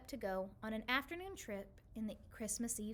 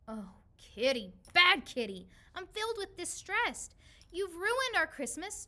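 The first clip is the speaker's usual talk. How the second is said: loud, raised scolding of a naughty cat; 7 semitones higher, 6 dB louder than usual. Acted. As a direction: tell the cat off, higher and louder.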